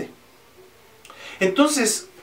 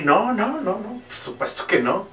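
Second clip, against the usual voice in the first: refusing king; 4 semitones higher than usual. Acted. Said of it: "El rey".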